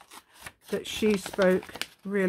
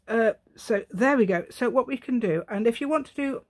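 going posh; 4 semitones higher, 4 dB louder than usual. Acted. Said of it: "I've gone posh".

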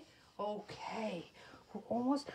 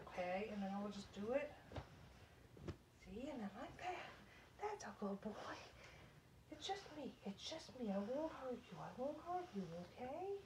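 soft, soothing coaxing; hushed comforting; gentle reassurance; 12 dB quieter than usual. Real, not acted. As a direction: quietly promise a scared pet it is safe. Reassuring the pet during trimming.

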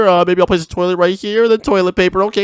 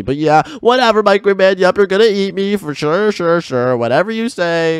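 suspiciously agreeable. Acted. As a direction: play along unconvincingly, as if hiding something. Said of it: "why are you talking like that? Why do you sound so sus?".

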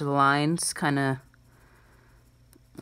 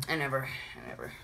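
fading echo; 9 dB quieter, much faster than usual. Pretend. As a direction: trail away softer with each repeat. Playful echo of "forever.

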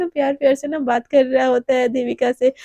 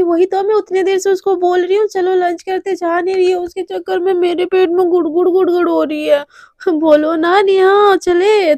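whiny complaint; 5 semitones higher than usual. Acted. Radhika whining to Neha so Devika will come to lunch, high and childish. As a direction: whine like a hungry kid begging.

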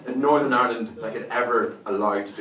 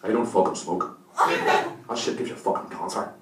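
hammed-up tough Belfast accent; 6 semitones lower than usual. Comedian deterring would-be muggers with his accent, tough Belfast voice. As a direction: unleash a hard Belfast accent. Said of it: "Release the Belfast".

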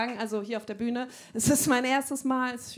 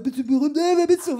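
lauter Überfall; 3 semitones higher, 10 dB louder than usual. Retold or imitated. Begegnung laut nachgespielt.

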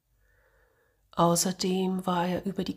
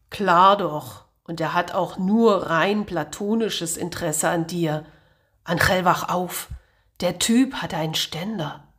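sarcastic sneer; 4 dB louder than usual. Acted.

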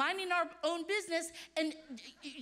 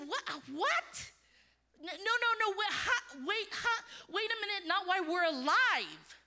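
shocked disbelief; 3 semitones higher than usual. Retold or imitated. Couple hearing of child trafficking, laughing disbelief. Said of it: "we said".

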